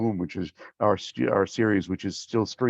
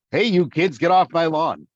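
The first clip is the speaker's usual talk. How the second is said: raised, higher-pitched lawn-guarding holler; mock yell; 5 semitones higher, 5 dB louder than usual. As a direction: yell at kids to get off the lawn. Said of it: "when you yell at actual kids".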